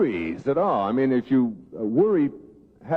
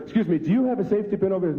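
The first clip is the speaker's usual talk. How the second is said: quick nervous plea, faster than before; nervous asking; 5 semitones higher, much faster than usual. Retold or imitated. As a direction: rush the question out nervously. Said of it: "she got really nervous".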